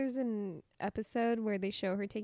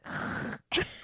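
unvoiced throaty rasp; scraping sound at the back of the throat; French throat R. Shown as a demonstration. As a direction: demonstrate a guttural French R. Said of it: "they do the, like, the".

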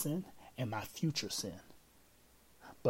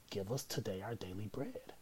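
quiet, calm and sure of it; settled trusting request, softer; confident; 5 dB quieter than usual. Retold or imitated. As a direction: claim it like a promise already kept. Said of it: "Jesus is like".

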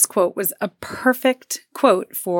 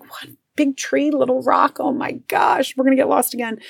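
higher pitched mock incredulity; exasperated disbelief; 7 semitones higher than usual. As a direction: repeat the silly landmarks in disbelief. Mocks vague directions, exasperated.

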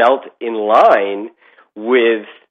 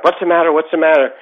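higher-pitched urgent question, retold; mildly alarmed; 6 semitones higher, faster than usual. Father to his screaming family in the truck, mildly alarmed. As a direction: reenact a worried father checking on everyone.

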